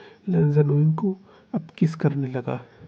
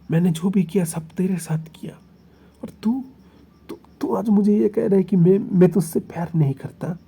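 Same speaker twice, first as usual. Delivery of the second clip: heated passionate protest. Acted. Heated lover's protest of devotion.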